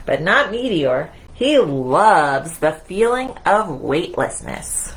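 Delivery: lively picture-book narration; reading to children. A narrator's reading. Storyteller reading Mousetronaut to the children, in a lively read-aloud. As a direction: read it out to little ones.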